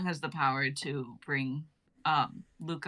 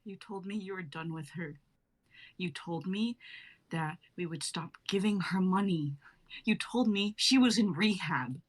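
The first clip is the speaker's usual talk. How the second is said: quiet accusing wife. Acted. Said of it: "Tony being played by her".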